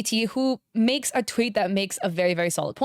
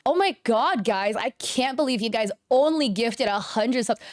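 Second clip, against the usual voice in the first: sarcastic; 2 semitones higher than usual. Shown as a demonstration. Streamer showing chat a sarcastic tone, sarcastic. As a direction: lay on mock amazement, pitched up at first. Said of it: "It sounds sarcastic".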